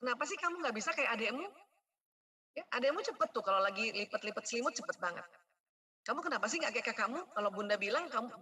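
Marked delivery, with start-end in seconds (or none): 0.0-1.4 comparing nag. Shown as a demonstration. 6.0-7.2 comparing nag. Shown as a demonstration.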